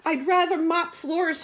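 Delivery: honking. Acted. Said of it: "he honked".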